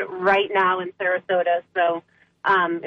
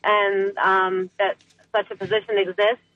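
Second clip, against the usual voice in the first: clipped phone line. Real, not acted. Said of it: "I'm calling from my car".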